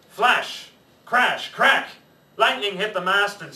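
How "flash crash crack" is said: dramatic. A narrator's reading. Storm sounds read dramatically.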